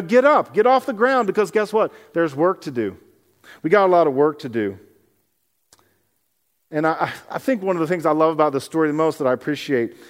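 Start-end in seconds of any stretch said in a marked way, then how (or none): 0.0-4.8 rally them to get moving; Jesus lifting his followers to start the work; rousing call. Retold or imitated.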